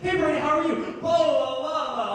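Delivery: high, overfriendly hello running into blahs; mock chatty greeting. Acquaintance at the drive-thru window, gushing mockingly.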